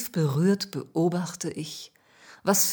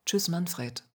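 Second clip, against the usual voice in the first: softer, dejected goodbye; soft farewell; 5 dB quieter than usual. Acted. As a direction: call it out quietly as you turn away. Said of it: "rufe ich ihm leise zu".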